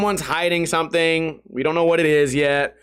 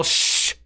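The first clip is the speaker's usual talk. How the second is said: long hissed shush; loud shush. Retold or imitated. Man trying to keep a secret, loud shushing. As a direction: shush as if yelling it. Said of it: "and then yell".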